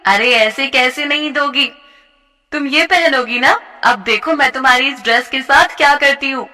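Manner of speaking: taunting bully. Acted. A bully sneering at a dancing classmate. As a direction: crush her hopes with scorn. Jyoti cutting the dress.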